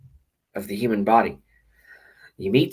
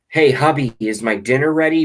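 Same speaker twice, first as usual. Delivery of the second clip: louder, higher mock wife calling to hubby; mock demanding wife; 4 semitones higher, 5 dB louder than usual. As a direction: ham up a bossy wife.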